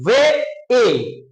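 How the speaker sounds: "वे", pause, then "ए" as a separate long ay; drawn-out vowel demo. Shown as a demonstration. Teacher answers for pupils, separated vowel demo. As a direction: isolate the ay sound of "वे" in "ए". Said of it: "बोलकर देखिए मेरे साथ".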